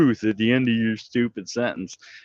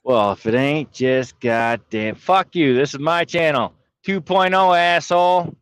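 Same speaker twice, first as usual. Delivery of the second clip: mock anger; 2 semitones higher than usual. Mock-angry rant about his channel.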